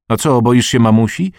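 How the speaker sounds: głośniej i wyżej, zaczepnie; podpuść kolegę, drwiąc z niego; drwina. A narrator's reading. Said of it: "zadrwił Kuba". (drwiący ton chłopca)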